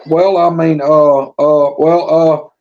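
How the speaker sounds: halting, sheepish ums and uhs; hesitant stammering wife. Retold or imitated. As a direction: mimic a wife too shy to ask. Wife stammering her request.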